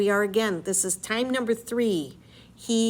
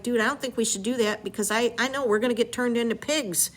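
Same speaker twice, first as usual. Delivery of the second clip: imitating Eurylochus; 3 semitones higher, 3 dB louder than usual. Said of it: "Eurylochus is like".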